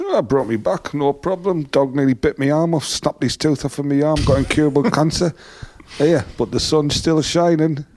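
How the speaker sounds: a hint of breezy, sunny cheer; cheery optimist. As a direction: imitate a cheerful passenger shrugging it off. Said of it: "ultimate optimist".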